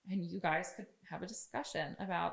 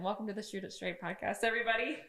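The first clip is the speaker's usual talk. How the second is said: second intro take; 2 semitones higher than usual. Shown as a demonstration. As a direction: welcome everyone like a real show host. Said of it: "I like that".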